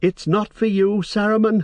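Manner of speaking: piercing, tuneless, shrill cry, pitched very high. The hobbit wakes and cries out, shrinking away from the one who touched him; shrill, toneless cry. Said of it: "he cried in a shrill and toneless voice".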